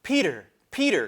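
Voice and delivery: high loud calling; crying out. Acted. Edmund calling to Peter, loud excited call. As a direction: shout for his brother. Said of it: "cried Edmund".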